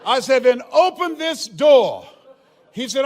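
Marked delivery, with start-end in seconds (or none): 0.4-2.1 loud, slow, deliberate order; firm loud command; commanding demand. Retold or imitated. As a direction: lay down the law through the glass. Demanding the door be opened.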